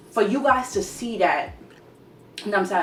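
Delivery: after crying. Real, not acted. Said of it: "I don't wanna get teary".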